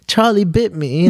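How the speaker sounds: high, slow, silly babbling voice; drugged-out babble. Retold or imitated. Sedated patient spouts random stuff, high loopy babble. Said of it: "I was just all drugged out".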